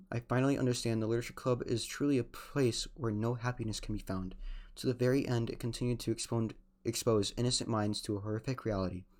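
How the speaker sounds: subdued, heartfelt reading of a farewell note; letter read aloud. Real, not acted. Player reads Monica's farewell letter, subdued reading. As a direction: read the goodbye softly and evenly.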